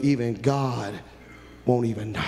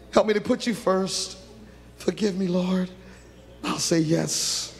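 earnest spoken prayer, steady and humble; model prayer; 3 semitones higher than usual. Acted. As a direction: pray aloud for them to follow. Leads congregation in model prayer.

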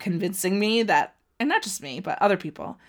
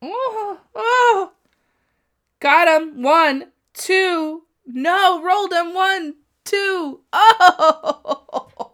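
high, loud yelling of the count along with the ref; shouting at the screen as the pin nearly lands; excited yelling; 11 semitones higher, 8 dB louder, much slower than usual. Real, not acted. Fan watching a near fall yells excitedly along.

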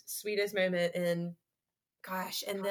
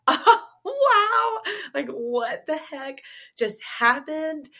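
giggly disbelief; 7 semitones higher, 5 dB louder, slower than usual. Retold or imitated. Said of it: "starting to giggle".

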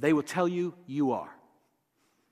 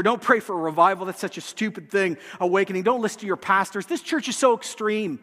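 mock demon whisper; 2 semitones higher than usual. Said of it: "They'll whisper".

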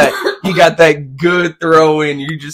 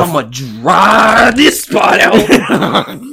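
curling sweeper voice; 4 semitones higher, much slower than usual. Acted. Pretending to sweep.

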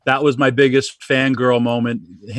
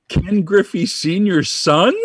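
starstruck blurt; 8 semitones higher than usual. Retold or imitated. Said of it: "I go".

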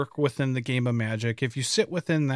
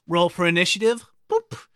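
mock game master voice. Mocking dice-rolling player.

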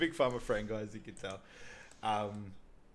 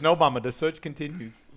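mock earnest son; 4 semitones higher, 8 dB louder than usual. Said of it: "he goes".

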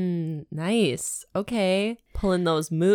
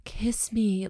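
mock begging; 2 semitones higher, 5 dB quieter than usual. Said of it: "like, begging him".

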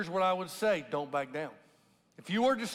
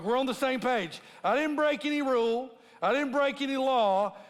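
sarcastic; 2 semitones higher than usual. Retold or imitated. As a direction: needle them with mock politeness. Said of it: "He's a little sarcastic here".

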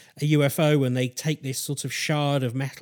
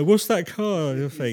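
mock French accent; 3 semitones higher, 3 dB louder than usual. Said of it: "I don't know why I went into French for that".

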